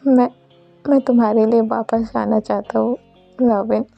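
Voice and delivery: understated imploring farewell; earnest plea with measured pauses; mild acted pleading. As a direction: gently plead to be let go.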